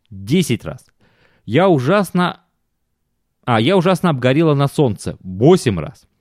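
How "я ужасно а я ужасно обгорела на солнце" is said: lightly voiced complaining wife; a hint of a tired, whining wife; whiny wife voice. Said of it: "аргументы, которые она приводила".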